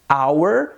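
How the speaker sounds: "hour" with no H, like "our"; silent H. Shown as a demonstration. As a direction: model "hour" starting on the vowel. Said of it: "não temos o som do H".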